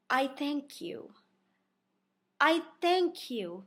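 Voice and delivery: slow, courtly i thank you; gentleman's thanks. Retold or imitated. Lightly imitating Luis's polite thanks. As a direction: savour each thank you. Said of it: "he's like".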